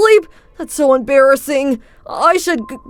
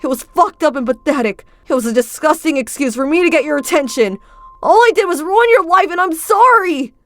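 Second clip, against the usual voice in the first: high, loud, breaking confession; desperate apology; 8 semitones higher, 4 dB louder than usual. Acted. Felix confesses to Luca, high and desperate. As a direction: pour out the guilt.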